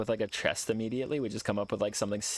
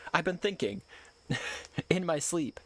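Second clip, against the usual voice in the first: mock sleepy companion; 7 semitones higher than usual. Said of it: "she straight up".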